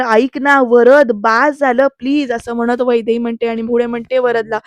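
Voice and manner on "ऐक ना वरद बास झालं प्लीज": pleading. Retold or imitated. Wife begs husband stop.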